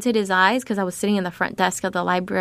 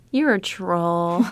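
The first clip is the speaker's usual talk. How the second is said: laughing disbelief; much slower than usual. Retold or imitated. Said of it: "I was like".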